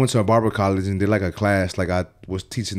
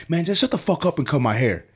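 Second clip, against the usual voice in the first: irritated order; 5 semitones higher than usual. Retold or imitated. Fed-up client orders the barber.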